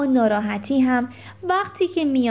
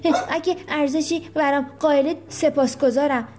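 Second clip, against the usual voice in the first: higher, hurt, whiny complaint, quick; complaining; 3 semitones higher than usual. Acted. Rocky complaining to the children he is no longer their pet, whiny. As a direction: sulk like a pet left out. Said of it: "شکایت کرد".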